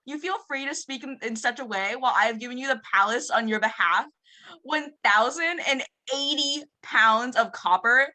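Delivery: lightly voiced Valley Girl, upspeak, lots of like; a hint of a Valley Girl whining. Student reading the complaint letter in Valley Girl voice. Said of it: "can we hear the Valley Girl voice".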